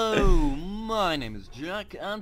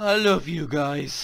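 fake drunk. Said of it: "your little funny drunk voice".

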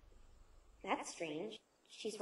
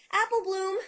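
higher, louder shout for Apple Bloom; shouting a name; 8 semitones higher, 8 dB louder than usual. Acted. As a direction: yell the name to find her. Searching for missing Apple Bloom.

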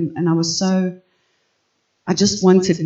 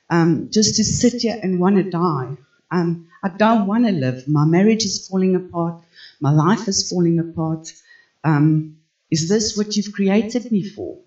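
retold despairing plea; 2 semitones higher than usual. Woman retelling her fight with the Lord, despairing. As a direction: plead with God, mildly distraught. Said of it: "I was fighting with the Lord".

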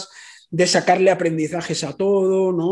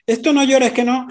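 put-on a bit higher, brisk mother telling a child not to cry; mock scolding mother; 4 semitones higher than usual. Imitating a mother hushing her crying child, higher and brisk. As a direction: brush off the child's tears like an impatient mom.

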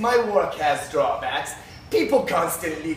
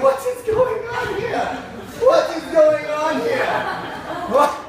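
outraged shout; 13 semitones higher than usual. Acted. Doctor spotting copying on his diagram, mock-outraged laughing shout. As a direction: shout it as if you caught a thief. Spots copyright infringement on diagram.

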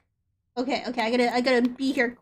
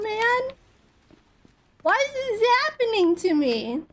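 raging gamer; 7 semitones higher than usual. Real, not acted. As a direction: whine at the unfair game. Chased again, despairing cries.

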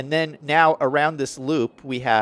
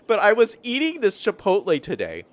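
laughing; 8 semitones higher, 4 dB louder than usual. Real, not acted. Laughs at spicy food.

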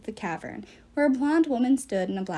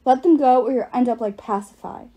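louder snarled warning; Hazel's snarl grows louder into a threat; 7 dB louder than usual. Acted. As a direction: threaten him, voice rising. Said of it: "Hazel snarled".

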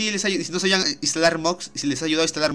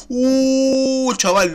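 excited gasp; 8 semitones higher, 4 dB louder, much slower than usual. Real, not acted. Reacting to evolved Pokémon.

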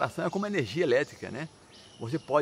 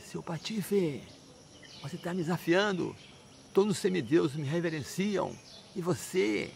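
high-pitched, indignant telling-off; stern scolding; 5 semitones higher than usual. Acted. Father confronts his defiant little son, scolding hard. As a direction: play an outraged father giving a harsh dressing-down. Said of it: "Aquela dura assim".

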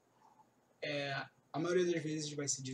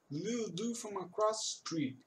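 slow demo; 6 semitones higher than usual. Shown as a demonstration. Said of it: "o jeito que ele fala".

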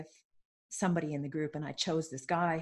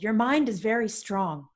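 louder, emphatic retold exasperation; exasperated; 3 semitones higher, 6 dB louder than usual. Coach fed up with a stubborn client, mildly exasperated. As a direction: press the point in mild exasperation. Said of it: "completely exasperated with me".

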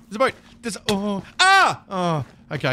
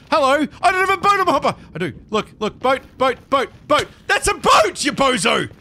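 high, loud frustrated calling; real exasperated yelling; 7 semitones higher, 4 dB louder than usual. Real, not acted. Streamer yelling at a villager about a boat. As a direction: yell at the dumb villager.

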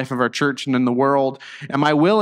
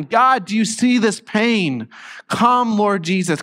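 slow, raised plea to God; earnest, higher-pitched appeal; pleading prayer; 5 semitones higher, slower than usual. Acted. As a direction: implore God, drawing the words out. Acted prayer over suffering.

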